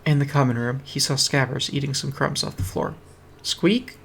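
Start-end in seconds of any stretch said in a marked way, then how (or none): 3.4-4.0 high squeak rising into a question; a little rat asking. Acted.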